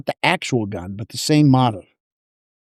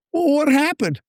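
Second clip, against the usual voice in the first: pressing disbelief; 13 semitones higher than usual. Retold or imitated. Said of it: "I'm almost yelling at him".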